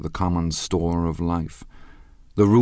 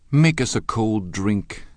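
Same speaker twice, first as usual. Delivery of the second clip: cried out; 5 semitones higher, 4 dB louder, slower than usual. A narrator's reading. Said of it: "cried Daisy".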